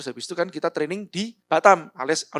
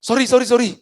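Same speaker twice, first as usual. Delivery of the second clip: mock apology; 8 semitones higher, 8 dB louder than usual. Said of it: "Alias apa?".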